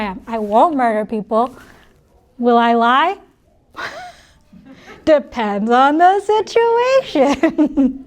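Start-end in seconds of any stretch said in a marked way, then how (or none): 5.0-8.0 joking hedge. Shown as a demonstration. Joking hedge about lying.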